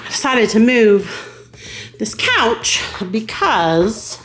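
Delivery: breathless, slow talking; panting between words; out of breath. Real, not acted. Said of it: "I'm out of breath".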